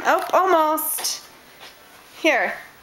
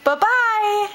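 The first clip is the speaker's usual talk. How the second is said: sing-song bye-bye; 5 semitones higher, much slower than usual. Real, not acted. Mom waves goodbye with baby.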